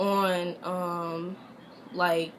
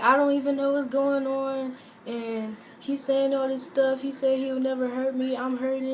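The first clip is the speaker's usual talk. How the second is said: retold crying; 4 semitones higher than usual. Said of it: "crying to him".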